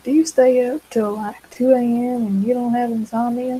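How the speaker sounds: imitating the neighbors with a lightly put-on Southern accent. Mocking people around her in a mild Southern accent. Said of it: "I'm doing a southern accent 'cause people around me".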